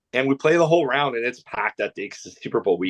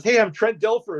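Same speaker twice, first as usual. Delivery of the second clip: Trent Dilfer introducing himself; 10 semitones higher than usual. Retold or imitated. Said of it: "he goes".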